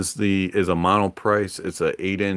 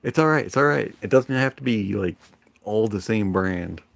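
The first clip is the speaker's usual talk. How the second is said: reassuring self-talk; 3 semitones higher than usual. Retold or imitated. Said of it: "like, tell my brain".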